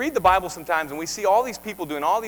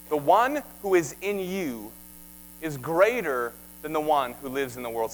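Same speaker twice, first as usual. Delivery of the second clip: slow, weighty verse read for the church to repeat; slow emphatic recitation; 3 semitones lower than usual. Shown as a demonstration. Preacher leading the church through the verse slowly. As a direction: lean on each word so they can follow. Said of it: "Say that with me".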